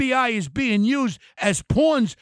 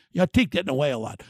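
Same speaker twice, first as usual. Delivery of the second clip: normal talking voice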